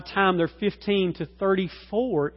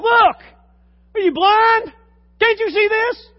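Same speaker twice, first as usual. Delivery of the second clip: loud, high outraged yell; yelling at the ref; 12 dB louder than usual. Retold or imitated. Preacher acting out a fan yelling at the referee. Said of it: "What do you yell?".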